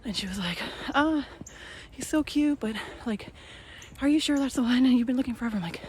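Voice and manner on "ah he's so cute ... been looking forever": high, loud gushing coworker voice; excited coworker. Retold or imitated. Coworker gushing over the puppy photo, high and loud. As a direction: coo over the puppy, then doubt it.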